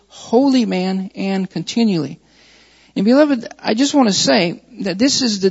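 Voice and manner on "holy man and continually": "holy man" and "continually" each set apart; weight both "holy man" and "continually"; emphasis on "holy man", "continually". Real, not acted. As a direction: stress "holy man", then "continually", as key words. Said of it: "So I'm emphasizing the words".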